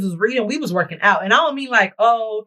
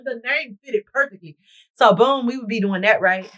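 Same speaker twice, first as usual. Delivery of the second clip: ordinary delivery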